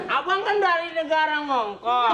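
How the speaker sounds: loose dentures, slurred words; gigi palsu lepas. Pretend. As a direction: talk with dentures slipping. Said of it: "Gigi palsunya lepas, ya?". (bicara dengan gigi palsu lepas)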